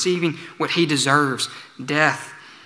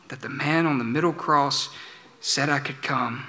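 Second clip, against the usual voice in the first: softly repeated, even quieter; quiet repetition; 6 dB quieter than usual. Real, not acted. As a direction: let it sink in, hushed.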